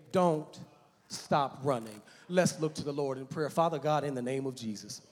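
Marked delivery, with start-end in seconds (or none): 0.1-2.0 "don't" set apart, then a pause before "stop running"; stress on don't. Real, not acted. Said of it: "I want to say to you today". 3.5-5.0 rising, fervent pulpit prayer. Acted. Leads a prayer.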